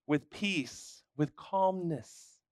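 calm. Acted. Preacher urging busybodies toward quietness, calm and hushed. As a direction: ease each phrase out peacefully.

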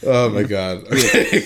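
laughing. Real, not acted. Cohost trying to stop laughing.

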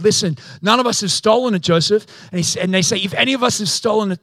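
retold indignant denial; indignant protest. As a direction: protest your innocence, mildly hammed up. Brothers protesting innocence in retold story.

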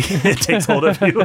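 said through bubbling laughter; laughing. Real, not acted. Podcast host cracking up at cartoon gravity, laughing.

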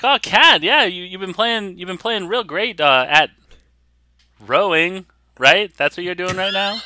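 high-pitched chatty Boston shopkeeper; Bostonian accent. Acted. Shop owner turns to Kat about sports, Bostonian accent. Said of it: "turns to Kat and is like".

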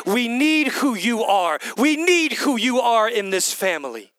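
passionate shout. Acted. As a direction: call it out with full force. Pleading shout in sermon climax.

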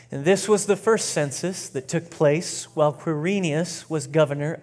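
deliberate scripture reading with measured phrases; slow, intentional reading. Real, not acted. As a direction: lead the room through the story, phrase by phrase. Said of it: "read it real slow and real intentionally".

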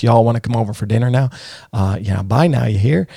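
light mock Texan accent, quick; a hint of an old-time Texan accent. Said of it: "Nobody talks like this".

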